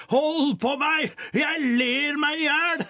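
king dying of laughter, calling out; helpless laughing shout. A narrator's reading. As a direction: howl it as you roll on the ground. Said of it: "lo kongen så fælt ... mens han ropte".

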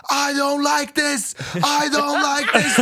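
put-on high, slow childish wail; screaming kid. Boy on the plane screaming in English, high drawn-out wail. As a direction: mimic a bratty kid yelling in English. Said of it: "så skriker han bokstav".

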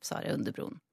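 unvoiced narration line; whispered. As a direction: breathe the words out. Narration whispered after hooves.

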